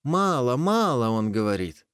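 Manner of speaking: high, jittery reply; nervous wolverine. Acted. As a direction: answer in a fright.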